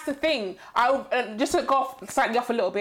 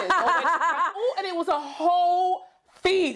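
laughing; 5 semitones higher, slower than usual. Real, not acted. Friends laughing over viral tweets.

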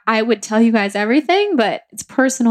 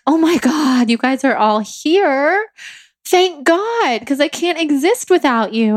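higher-pitched, acted-out grateful relief; retold relief; 5 semitones higher than usual. Recounting seeing parents' faces appear, retold relief.

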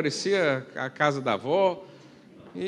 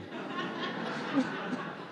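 high airy laugh; a quick silent giggle; breathy laugh; 13 semitones higher, 12 dB quieter than usual. Real, not acted. Pastor laughing at his own joke to the congregation, airy laugh. After joke about hell.

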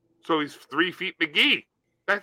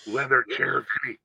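bartender voice; 7 semitones lower, 5 dB quieter than usual. Retold or imitated. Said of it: "The bartender goes".

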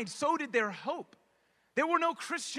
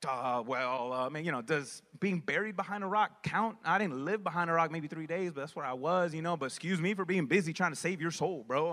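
a hint of a dry Jesus; 7 semitones lower than usual. Jesus voiced in a retort.

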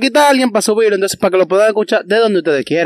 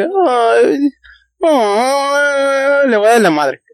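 mock cutesy voice; 5 semitones higher, much slower than usual. Imitating a cute girlfriend.

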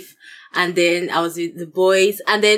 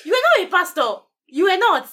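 higher, giggling as she insists; laughing insistence; 12 semitones higher than usual. Real, not acted. Insisting he wasn't the pastor.

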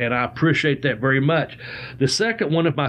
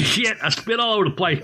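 spitting out a drink; 5 semitones higher than usual. Real, not acted. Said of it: "I just spit water everywhere".

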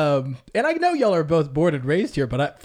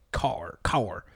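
low, softer imitated Southern "car, car"; Southern accent; 7 semitones lower, 5 dB quieter than usual. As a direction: mimic a Southern girl's drawled "car". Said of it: "she'd say".

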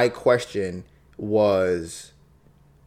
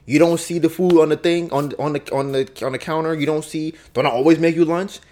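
loud, higher, indignant comeback; defensive retort; 6 semitones higher, 4 dB louder than usual. Retold or imitated. Wife defensively snapping back at husband about lunch, loud and indignant. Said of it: "she'll get defensive and be like".

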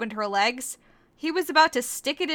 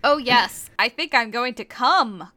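a little louder, mock screech; half-hearted screech; 5 dB louder than usual. Korra in the fanfic's climax, mild mock screech. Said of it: "Korra screeched".

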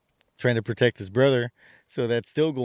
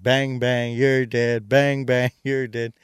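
mocking taunt; 6 dB louder, slower than usual. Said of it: "mocking her".

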